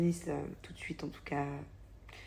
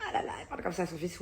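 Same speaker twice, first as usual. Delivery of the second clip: imitating shocked mums; 3 dB quieter, faster than usual. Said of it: "il y a des mamans qui me disent".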